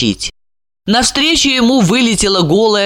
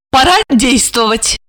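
raised, decisive call to act; commanding; 6 semitones higher than usual. A narrator's reading. Olga ordering Georgy to act, commanding. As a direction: give it as an order. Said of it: "приказала она".

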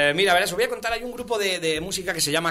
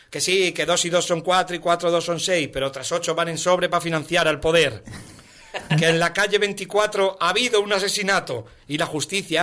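put-on chanted children's-rhyme parody; comic ballad recitation; singsong verse recital. Recites parody of Don Gato.

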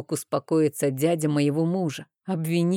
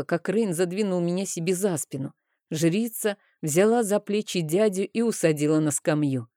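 plain reading voice

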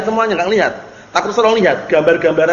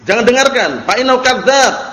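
mock yelling; 4 semitones higher than usual. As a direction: act out calling to a crowd, restrained. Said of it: "Teriak-teriak di belakang manusia ngomong".

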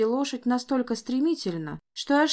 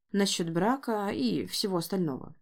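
ordinary delivery

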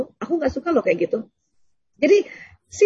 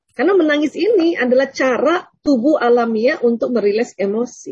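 ordinary talk

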